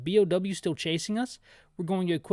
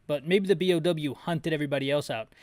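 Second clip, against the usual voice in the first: normal talking voice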